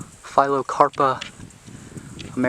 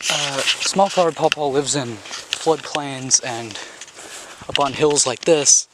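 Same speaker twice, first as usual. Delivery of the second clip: out of breath from climbing; winded, short of breath; slower than usual. Real, not acted. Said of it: "Sorry, I'm out of breath".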